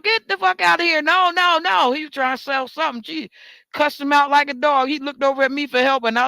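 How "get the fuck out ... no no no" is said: angry shout. Retold or imitated. Grocery lady throwing the seller out, mock yelling. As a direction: shoo him out like a dog. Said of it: "the lady was putting him out".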